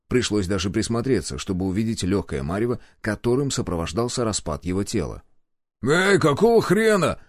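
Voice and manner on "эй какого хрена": higher, slow indignant call; angry outcry. A narrator's reading. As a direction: cry out in anger, drawing it out. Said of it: "раздался гневный выкрик". (гневный выкрик)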